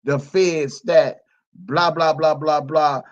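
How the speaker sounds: a mild mock of Dana J's line. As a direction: drag it out like you're mocking a liar. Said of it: "Dana J was the one always saying".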